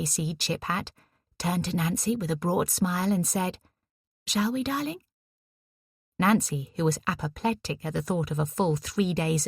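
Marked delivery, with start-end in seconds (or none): 4.3-5.0 higher, light voice for Eliza; a breezy, fond invitation; lightly voiced posh young woman. A narrator's reading.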